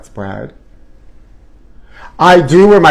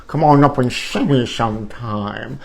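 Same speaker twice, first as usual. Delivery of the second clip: Mae West line; 3 semitones lower, 5 dB quieter than usual. Pretend. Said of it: "Mae West".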